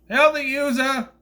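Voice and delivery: high, loud hammed-up villain cry; hammed-up shouted greeting; mock villain shout. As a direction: bellow it like a movie henchman. Villain greets Sam in retelling.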